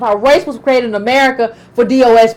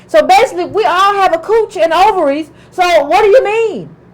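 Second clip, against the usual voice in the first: mocking other women; 3 semitones higher than usual. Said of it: "come in and be like".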